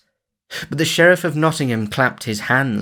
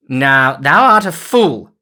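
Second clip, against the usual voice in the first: much higher and louder scoff; cried out; 5 semitones higher, 9 dB louder, slower than usual. A narrator's reading. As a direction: scold loudly. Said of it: "cried the sheriff".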